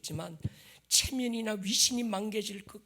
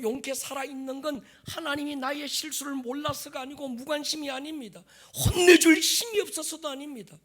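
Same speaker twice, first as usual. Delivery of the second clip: impassioned preaching; 7 semitones higher, 8 dB louder than usual. Acted. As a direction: press the question home, loud. Preaches at full force.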